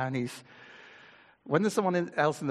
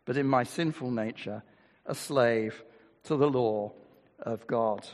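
scripture reading; 3 semitones lower than usual. Acted.

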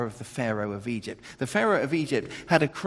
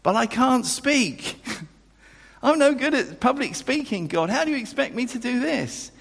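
petulant complaint; 11 semitones higher than usual. Retold or imitated. Moses protesting to God, petulant and high. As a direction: whine it at God like a sulky child. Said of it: "He doesn't say it in that kind of, kind of, you know, petulant way".

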